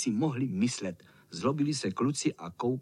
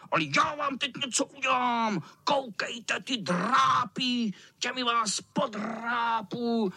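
menacing cat; 8 semitones higher than usual. Acted. Cat threatening boys.

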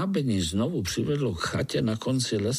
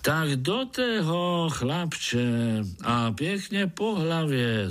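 higher, slow, cheerful call; exclaiming; 6 semitones higher, slower than usual. Acted. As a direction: shout encouragement before the jump. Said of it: "zvolal Krtek". (zvolání)

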